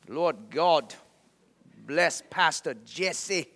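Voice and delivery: slow, halting prayer in an imitated Chinese accent. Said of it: "praying over me in his Chinese accent".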